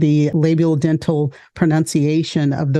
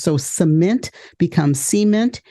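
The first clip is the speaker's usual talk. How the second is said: "cement" first plain, then stressed CE-ment; stress shift demo. Shown as a demonstration. Teacher contrasting stress on "cement". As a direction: punch the first syllable of "cement". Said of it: "stress on a first syllable instead of a second".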